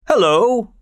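high, loud hearty greeting; loud hello. Acted. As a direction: cry it out loud to the room. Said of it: "he cried in his usual loud voice".

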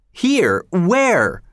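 very high, startled questions; shocked. Acted. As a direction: whip round in alarm. Told killer is behind him.

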